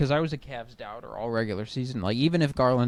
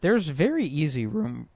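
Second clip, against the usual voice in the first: voice crack; 3 semitones higher than usual. Real, not acted. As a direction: voice cracking on very easy. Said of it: "Whoa, voice crack".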